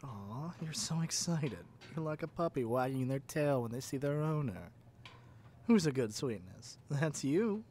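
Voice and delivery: loud, gushing puppy praise; over-the-top doting dog-owner voice; gushing pet talk. Acted. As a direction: coo at them like an owner to a dog.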